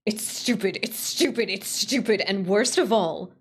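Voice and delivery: bitter repetition. Acted. Repeated bitter insistence.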